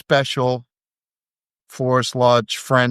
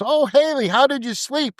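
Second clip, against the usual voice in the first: quoting Aldro; 14 semitones higher than usual. Retold or imitated. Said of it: "and Aldro goes".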